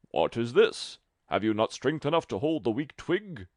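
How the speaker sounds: a hint of a sneering giant; lightly voiced giant. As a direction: giant mocking the tailor's weakness. Giant scolds the tailor.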